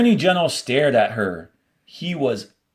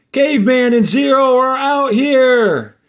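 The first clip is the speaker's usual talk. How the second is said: louder and much higher, calling out to the room; shouted call; 12 semitones higher, 7 dB louder than usual. Acted. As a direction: yell it back into the rec room. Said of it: "Squid shouted back".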